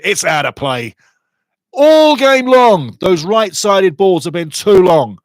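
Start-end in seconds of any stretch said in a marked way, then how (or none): 1.7-5.2 higher, louder, slow exasperated rant; exasperated complaint. Real, not acted. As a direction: drag it out in frustration. Frustrated at team's long balls.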